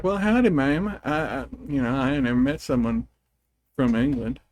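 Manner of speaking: put-on Southern accent laid on thick; hammed-up Southern drawl. To an English mom, a hammed-up Southern accent. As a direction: play up the Southern twang to annoy the English mom. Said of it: "how much I sound like I am from the area".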